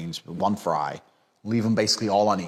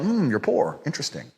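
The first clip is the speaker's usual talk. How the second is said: unimpressed murmured replies, trailing softer; condescending feigned interest; 2 semitones lower, 4 dB quieter than usual. Acted. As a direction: politely humour them while looking down on them. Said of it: "I'm just sitting there going".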